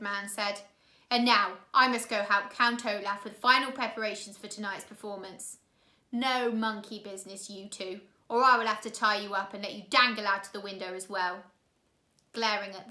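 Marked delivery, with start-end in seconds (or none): 1.1-11.4 loud, fast mock threat; a lightly voiced menacing thug; threatening henchman. Henchman warning the orphans before leaving, loud and threatening. Hook-handed man threatens the children.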